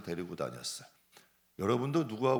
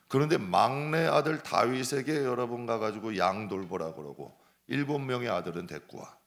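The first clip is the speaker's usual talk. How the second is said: usual speaking voice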